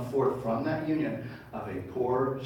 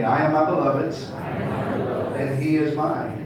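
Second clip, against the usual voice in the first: raised, slow call for all to join; preacher leads congregation in louder unison line; louder group recital; 3 semitones higher, 6 dB louder, slower than usual. Shown as a demonstration. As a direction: lead the room in saying it. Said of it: "Say it with me".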